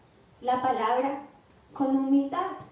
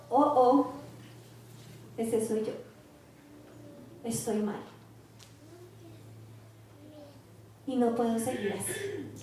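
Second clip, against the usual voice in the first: low, soft, halting admission of fault; acted humbly, sinking quieter with long pauses; humble self-reproach; 3 semitones lower, 8 dB quieter than usual. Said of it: "esa es la persona que con humildad".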